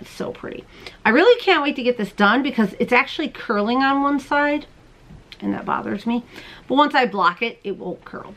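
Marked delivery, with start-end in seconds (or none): 0.0-0.6 whisper. Real, not acted. Whispered admiration of yarn. 7.6-8.3 whisper. Real, not acted. Whispered aside while knitting.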